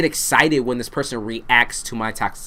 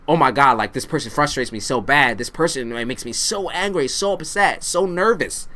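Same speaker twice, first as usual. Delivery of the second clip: acted exasperation; 3 semitones higher than usual. Voicing someone frustrated by this toxic person, acted exasperation. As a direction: build a put-on frustrated vent, pitch rising.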